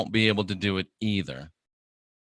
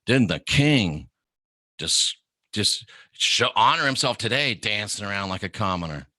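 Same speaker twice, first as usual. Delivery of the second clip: scornful wife; 2 semitones lower than usual. Retold or imitated. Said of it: "his wife says".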